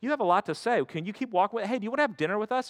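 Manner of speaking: lightly voiced delighted followers; eager disciples. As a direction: gush with growing excitement. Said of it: "And they're like".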